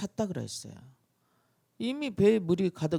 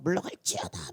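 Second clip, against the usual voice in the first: mock-frantic roar of banishment; hammed-up shouted decree; bellowed command. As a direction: roar it out like a desperate exorcist. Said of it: "아주 큰 소리로 고함치면서".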